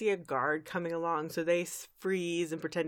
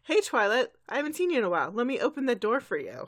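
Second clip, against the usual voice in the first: higher, chirpy welcome; friendly greeting; 5 semitones higher, faster than usual. Retold or imitated. Recapper plays a guard opening the door for Twilight, friendly. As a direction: greet an old acquaintance cheerily.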